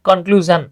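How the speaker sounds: conclusion ending in a zh sound, not shon; teacher corrects conclusion, not shon; correct pronunciation. Shown as a demonstration. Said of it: "not শন".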